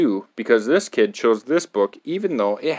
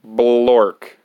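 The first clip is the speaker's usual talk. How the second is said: silly nonsense word; 4 dB louder than usual. Acted. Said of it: "even if the words say".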